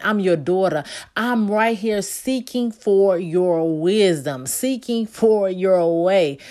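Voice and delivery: earnest, pleading morning prayer; heartfelt prayer, building and emphatic; spoken prayer. Acted.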